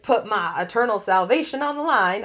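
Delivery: accidental touch of Southern twang; loud, emphatic, lightly Southern; Southern slip. Real, not acted. Insisting she won't risk salvation, slipping into Southern. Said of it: "I got Southern there".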